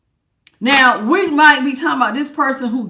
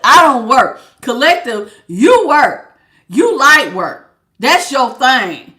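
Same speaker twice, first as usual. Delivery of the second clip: louder, dragging the last lines out slowly; mock the freeloader, loud and slow; loud mocking of a lazy partner; 2 semitones higher, 7 dB louder, slower than usual. To her viewers, mocking the lazy partner, loud and drawn out.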